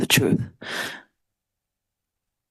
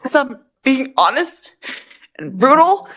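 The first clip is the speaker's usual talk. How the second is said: heated protest; 6 semitones higher than usual. Real, not acted. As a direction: argue back at the judge, voice raised. Defendant arguing heatedly with judge.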